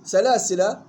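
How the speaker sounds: سلاسل ended on short a, "salaasila"; joined form. Shown as a demonstration. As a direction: leave the final vowel of سلاسل short. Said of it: "وصلا الألف محذوفة". (سلاسل بحذف الألف وصلًا)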